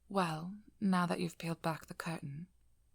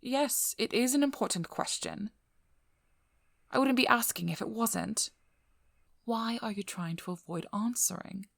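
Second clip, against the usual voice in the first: higher-pitched, firm insistence; insistent; 3 semitones higher than usual. Acted. Speaker pressing an evasive vampire to answer, insistent. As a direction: press the point, voice lifted.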